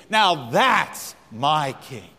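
drawn-out, emphatic proclamation; preacher leading the crowd in a refrain; slow call-and-response. Shown as a demonstration. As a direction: lead the congregation word by word. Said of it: "Say it with me".

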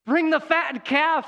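loud, high joyful shout; the father shouting for the feast; father's shout. Acted. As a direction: call it out to the whole household. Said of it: "he shouts out".

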